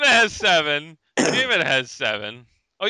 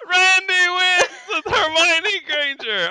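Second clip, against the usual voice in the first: excited announcing; 5 dB louder than usual. Real, not acted.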